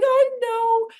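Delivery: high, loud, sing-song and giddy; giddy excitement. Retold or imitated. Answering her own teasing, she gushes high and sing-song. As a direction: gush it like an overjoyed child. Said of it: "And I'm like".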